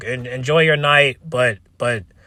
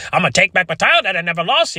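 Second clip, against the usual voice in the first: mocking Rhea; 5 semitones higher, faster than usual. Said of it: "Nobody wants to hear Rhea say".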